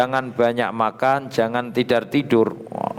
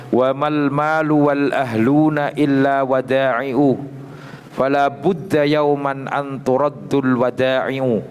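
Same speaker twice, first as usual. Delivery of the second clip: recited verse; 2 semitones higher, slower than usual. Shown as a demonstration. Teacher recites Labid's Arabic verse.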